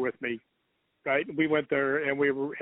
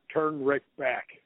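slow, spaced-out words; measured, drawn-out quote; imitated spirit message; much slower than usual. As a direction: repeat a ghostly message slowly, word by word.

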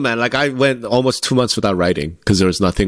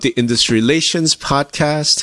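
upbeat welcome; 5 semitones higher than usual. Acted. Show opening welcome.

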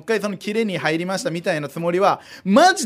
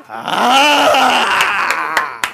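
mock threat yell; 5 dB louder than usual. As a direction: yell to intimidate.

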